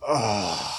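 weary fed-up groan; sulky teen mumble. Retold or imitated. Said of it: "Ben Affleck ... looking exhausted with the world".

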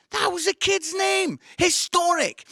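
high, incredulous exclamation; can't believe that name, pitch it up high; amazed disbelief. Real, not acted. Astonished at the kid's name.

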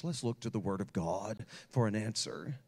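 a pastor calmly pointing her to scripture; pastoral voice. Retold or imitated. Pastor to troubled girl, lightly voiced pastoral calm. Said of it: "in my pastoral voice".

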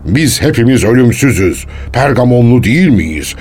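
lightly grandiose imitation of a self-styled god; slow greeting growing into a mock-solemn declaration; imitated delusional proclamation. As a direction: quote the madman with measured, stately weight. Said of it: "dermiş".

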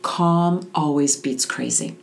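slow, steady reassuring lesson; aunt teaching her niece a calm motto. Shown as a demonstration. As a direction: lay it down slowly and calmly. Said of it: "I want you to remember".

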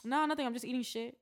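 light Miami accent; casual Miami-accented brush-off. Shown as a demonstration. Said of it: "You have to say it in this accent".

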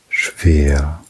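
Schwer. whispered without voice, slowly. Acted. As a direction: breathe Schwer. out as a pure whisper. Repeated word, now whispered.

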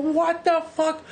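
mock angry yell, high and slow; high, drawn-out mock outburst; retold yell. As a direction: shout it like a furious officer. Officer freaking out, yelling.

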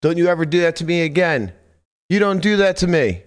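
yelling at the other player; mild mock yell. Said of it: "loudmouth Boston-looking guy yelling stuff".

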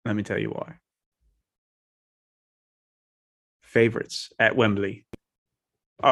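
put-on a light, half-hearted British accent. Podcaster making his London game pick, in a light British accent. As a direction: play the bloke from London, lightly. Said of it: "in kind of a British, British accent here".

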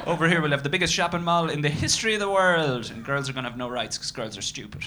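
put-on excited eight-year-old boy. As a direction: brag like a child planning a dream city.

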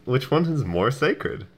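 measured, slow, grave adventurer; slow solemn hero. Acted. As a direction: ask it slowly, like a knight. Repeats the solemn question.

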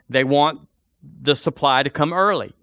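ordinary talk, nothing marked

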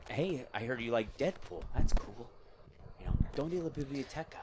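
lightly imitated casual movie star; a hint of an actor impression; Ryan Reynolds. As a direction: play the star chatting to a young fan. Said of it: "I haven't done Ryan Reynolds".

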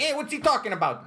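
high confused dad voice. Retold or imitated. Dad not getting the boy's remark, high puzzled voice. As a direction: play the puzzled father, squeaky and loud. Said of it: "He'd be like".

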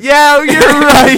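loud, high, drawn-out agreement; real laughing astonishment; amazed realization. Real, not acted. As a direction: burst out as it dawns on you. Sudden realization about the accents.

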